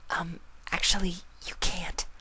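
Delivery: soft, high whispered hesitation; timid whisper. Acted. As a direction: shyly break the news. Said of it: "Fluttershy said".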